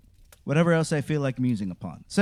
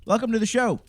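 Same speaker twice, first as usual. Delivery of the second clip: booming showman wizard welcome; grand, spooky horror host greeting; 5 semitones higher, 4 dB louder than usual. Acted. Theatrical podcast intro as wizard.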